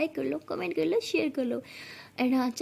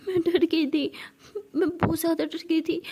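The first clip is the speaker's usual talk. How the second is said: a laugh breaking into a cry; relieved sobbing after a scare; tearful relief; 3 semitones higher than usual. Acted. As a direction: cry out the relief that she is safe. Relieved after fearing for her friend.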